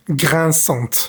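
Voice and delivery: "Grinçante" with the final T clearly sounded; teacher modelling the feminine T in "Grinçante"; pronouncing the T. Shown as a demonstration. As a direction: say "Grinçante" ending on a crisp T. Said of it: "tenemos que pronunciar la T".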